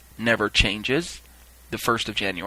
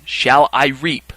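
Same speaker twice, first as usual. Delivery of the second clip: loud, very slow questioning call; 5 dB louder, much slower than usual. Retold or imitated. Reaper asking his final question, calling out. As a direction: stretch it out to the crowd.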